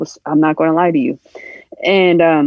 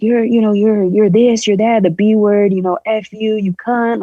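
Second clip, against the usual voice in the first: higher-pitched retelling of insults; imitated verbal abuse; 5 semitones higher than usual. Man cursing out the narrator's mother, imitated abuse. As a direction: reel off the insults as a quote. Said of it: "calling her all these crucial, hurtful words".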